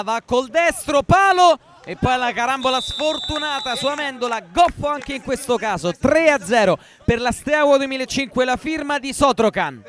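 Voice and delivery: breathless italian goal commentary. Real, not acted. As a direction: call the goal with a burst. Live goal call, third goal.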